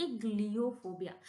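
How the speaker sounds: "एग्लियोफोबिया" with opening "e" sound; teacher's model "एग्लियोफोबिया", begun with "e"; pronunciation demo. Shown as a demonstration. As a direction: start "एग्लियोफोबिया" on "eg". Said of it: "इसको हम ए से पढ़ेंगे".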